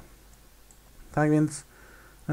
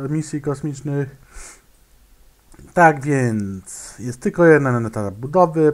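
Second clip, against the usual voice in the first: ordinary talk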